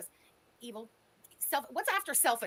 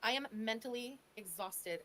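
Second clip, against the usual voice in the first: mocking Foodie Beauty; 2 semitones lower than usual. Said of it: "Hello, this is Foodie Beauty".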